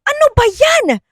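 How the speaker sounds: high, loud horrified asking; high mock-disgusted outcry; disgusted shock. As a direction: recoil at the find. Classmate finds dentures in sink.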